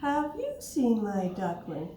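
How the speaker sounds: slow, lightly acted question; a hint of a searching mother duck; mother duck asking. Mother duck asks again.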